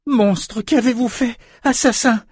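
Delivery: put-on high-pitched furious young girl; outraged accusation. A narrator's reading. Samantha runs at Richard beside her dead mother, outraged high cry.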